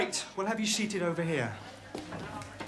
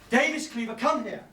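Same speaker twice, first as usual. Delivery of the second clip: higher-pitched, exasperated command; sharp summons; 4 semitones higher than usual. Acted. Teacher summoning two cheeky pupils, exasperated. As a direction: call them over, out of patience.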